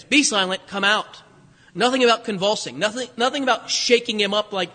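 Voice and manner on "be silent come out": firm, loud command; stern rebuke. Shown as a demonstration. Jesus ordering the unclean spirit out, stern and loud. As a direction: cast the spirit out firmly. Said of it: "Two commands".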